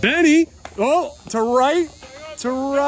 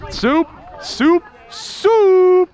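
calling out; 5 semitones higher, 4 dB louder, much slower than usual. Real, not acted. Calling a teammate's nickname.

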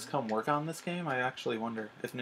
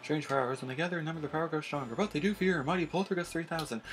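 a theatrical medium's voice, a little higher; mystic fortune teller; 5 semitones higher than usual. Acted. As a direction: commune with the spirits in a theatrical way.

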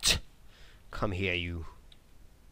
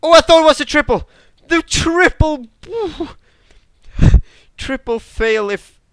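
much higher, much louder, fast excited cries; excited laughing yell; 14 dB louder than usual. Real, not acted. Gamer yelling and laughing over a missed triple kill. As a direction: burst out laughing at the near triple.

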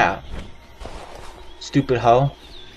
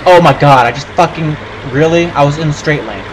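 exasperated rant; 3 dB louder than usual. Retold or imitated. Acting out his own driving rant.

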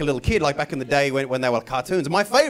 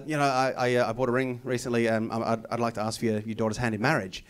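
nervous quiet proposal; 6 semitones lower, 5 dB quieter than usual. Retold or imitated.

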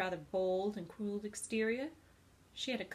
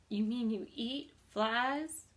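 gasping; 4 dB louder, slower than usual. Acted. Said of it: "gasped Wilbur".

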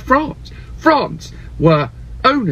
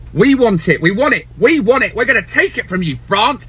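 greedy demanding; 3 semitones higher than usual. Retold or imitated. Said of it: "Spain came along and they said".

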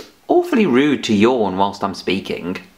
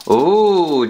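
surprised ooh; 3 semitones higher, 4 dB louder than usual. Acted. Finding an object.

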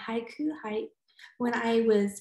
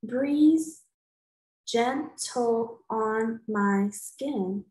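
slow counting; much slower than usual. Shown as a demonstration. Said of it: "So breeze".

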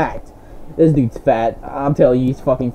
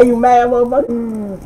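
slow gloating taunt; 7 semitones higher, slower than usual. Real, not acted. Taunting dead enemy.

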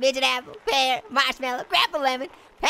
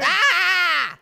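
loud sudden yelp; startled shout; 2 semitones higher, 3 dB louder than usual. Real, not acted. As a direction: yelp as it goes wrong. Character falls.

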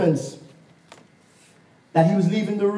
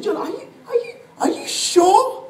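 laughing disbelief. Real, not acted. Incredulous laughing question.

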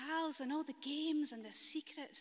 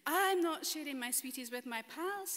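put-on loud, possessive child's declaration; greedy wee boy; 3 semitones higher, 7 dB louder than usual. Storyteller voicing boy hoarding sweets from pals, loud and possessive.

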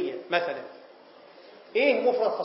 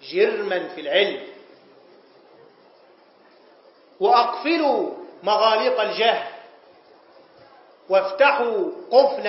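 slow, solemn classical Arabic exhortation; mock-solemn preacher closing the lesson; lofty sermon; slower than usual.

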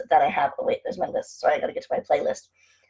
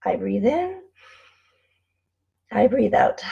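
meditation demo; 4 semitones higher than usual. Shown as a demonstration. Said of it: "There's a really great meditation".

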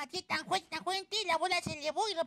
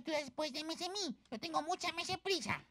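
softer, measured counter-claim; understated insistence; 6 dB quieter than usual. Acted. Cat arguing over who goes first, mild insistence. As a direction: state the counter-claim softly.

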